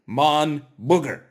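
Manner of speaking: "Regardez mon booger" called out loud for students to repeat, mock French accent; teacher leads the class loudly through "Regardez mon booger" in a put-on French accent. Shown as a demonstration. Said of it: "Say it with me".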